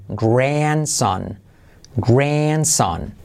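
"Grandson" drawn out, rounded R, no D; R with U glide. Shown as a demonstration. Teacher modelling the transcription, "Grandson" with rounded R. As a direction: stretch "Grandson" slowly on its R. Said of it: "siempre trae consigo una U".

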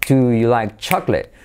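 "Do you" linked but both words kept; smooth, linked question; joined words. Shown as a demonstration. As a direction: glide through "Do you like chocolate". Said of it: "el nativo tiende a unir todo".

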